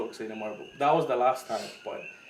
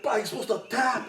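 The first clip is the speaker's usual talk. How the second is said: laughing quote; 10 semitones higher than usual. Retold or imitated. Instructor laughing at him.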